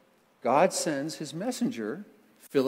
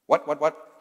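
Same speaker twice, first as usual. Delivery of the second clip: loud, short "what" quacks; punchy duck imitation; 7 dB louder than usual. Shown as a demonstration. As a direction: quack out "what" three times. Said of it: "He was not a duck".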